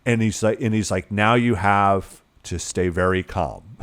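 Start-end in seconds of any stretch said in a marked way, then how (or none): 1.1-3.8 slow, low, measured reassurance; retold calm, drawn out and lower; calm instructions. Film father telling his daughter to stay put, calm.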